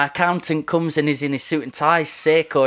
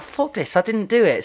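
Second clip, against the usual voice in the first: retold outburst; 6 semitones higher than usual. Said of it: "I'm like".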